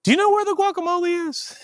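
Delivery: high-pitched deflecting question; evasive shopper. Acted. Pastor dodging a believer at the store, high and evasive. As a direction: dodge with a high, innocent query.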